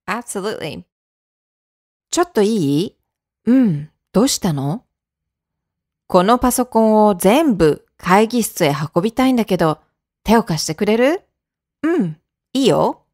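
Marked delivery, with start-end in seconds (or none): 2.1-13.0 both parts of a model dialogue, clear and even; teacher reading both roles of the sample dialogue; dialogue demo. Shown as a demonstration. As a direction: act out the sample conversation, lightly voiced. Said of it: "Let's do it".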